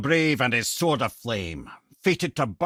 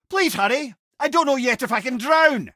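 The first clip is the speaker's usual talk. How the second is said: much higher, pressing plea; urgent panic; 12 semitones higher than usual. Acted. Head fearing the water, pleading urgently for a rush. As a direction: beg them to hurry, alarmed.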